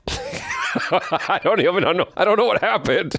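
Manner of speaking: can't stop laughing mid-sentence. Real, not acted. Cracking up at friend's strange apology, laughing.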